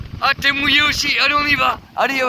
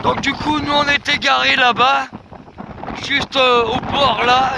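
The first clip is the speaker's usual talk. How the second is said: shouting over wind; 4 semitones higher than usual. Real, not acted. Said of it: "je crie peut-être un petit peu fort dans le téléphone".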